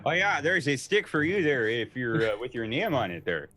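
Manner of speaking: hammed-up buddy voice; bro voice. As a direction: riff on the bro. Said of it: "riffing on bro voice".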